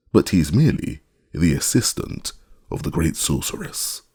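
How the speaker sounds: measured storybook reading; unhurried, clearly phrased narrator; story narration. A narrator's reading. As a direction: read it aloud like a children's tale. Reads story narration aloud.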